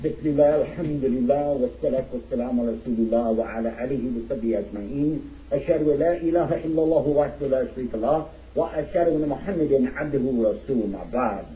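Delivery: fast, fluent recited opening prayer; formal Arabic invocation. Acted. Speaker opening his address with praise of Allah, formal recitation. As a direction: recite the opening praise in a quick, practiced flow.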